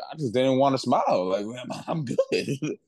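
put-on playful take-off of a heavy African accent; thick African accent. Teammate explaining he's fine, not smiling, in a thick African accent. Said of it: "In, in a thick accent".

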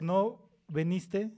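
"No viniste" stretched slowly; slow, drawn-out no viniste. Shown as a demonstration. Explaining the double meaning to the host, slow and drawn out. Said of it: "Porque si preguntas".

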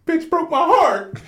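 high, slow laughing confession; laughing quote. Retold or imitated. Telling the podcast hosts about his breakup, laughing through it. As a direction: laugh the words out while retelling the breakup. Retelling crying over a breakup.

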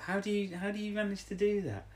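high, wide-eyed mock amazement; lightly voiced amazed Alison; amazed question. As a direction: ask it as if astonished. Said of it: "Alison's like".

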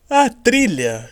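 hiccuping between words; with hiccups. Real, not acted. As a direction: talk through the hiccups. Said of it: "Estou quase, é, soluçando".

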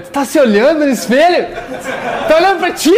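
hammed-up woman asking a teasing question; woman's voice. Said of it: "E a mulher".

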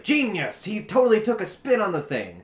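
high, loud fake amazement; mock gushing. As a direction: gush like an easily impressed fan. Mocking gushing comic fans.

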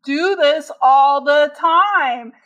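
loud, slow accusing jab; husband's accusation. Retold or imitated. Husband scolding her over the stove, accusing. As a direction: throw the blame at her. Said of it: "he was like".

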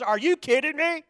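high, loud incredulous voice; Sherry. Retold or imitated. Preacher imitating a woman at home reacting to him, high and incredulous. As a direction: pitch it way up in mock disbelief. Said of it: "she looks at me and she says".

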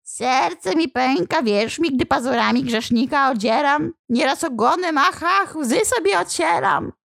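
a devil milking false tears, sighing ach ach; whining demon. Acted. Tormenting demon feigning pity to the priest, high whine.

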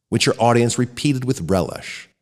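plain reading voice

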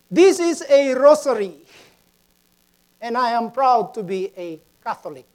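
lightly acted schoolchild announcement; student presenting. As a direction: present it proudly to the class. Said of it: "Third student came up".

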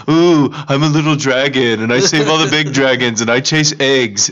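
slow, cutesy little dragon voice; mock a cutesy little dragon; squeaky baby dragon. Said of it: "And he's like".

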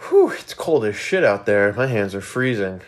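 winded, puffing after a run; out of breath. Real, not acted. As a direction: talk while still catching breath. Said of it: "if I seem a little bit out of breath".

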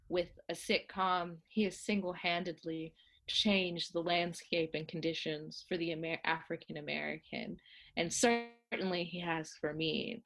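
lightly voiced dignified grande dame; Felicia Rashad. Actress defending her colleague in a debate, dignified.

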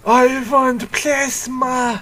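high, very slow vampire wail; hungry vampire. Pretend. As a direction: moan it like a starving vampire. Joking about vampire Morbius.

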